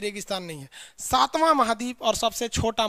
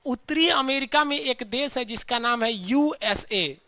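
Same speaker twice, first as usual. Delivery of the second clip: slow, deliberate teacher explanation; slow and careful; slower than usual. Shown as a demonstration. Teacher slowing down so students catch it. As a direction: spell it out slowly for the class. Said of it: "ध्यान से देखिए।".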